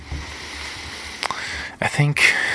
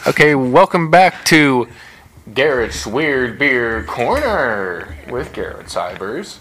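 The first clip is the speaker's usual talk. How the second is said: slow announcer voice for the show; show host intro. Acted.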